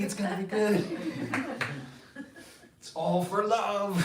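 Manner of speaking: calm her down fast, talking over her; pleading husband. Acted.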